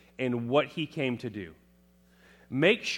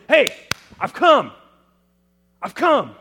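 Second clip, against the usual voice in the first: high, loud, proud announcement of arrival; announcing arrival; 11 semitones higher, 14 dB louder than usual. Acted. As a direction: burst in and announce yourself. Acting someone entering a room.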